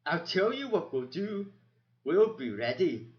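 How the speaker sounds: put-on loud, defiant young hero; bold rallying call. Matthias rallying the frightened mice, loud and defiant. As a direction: rouse the crowd with conviction.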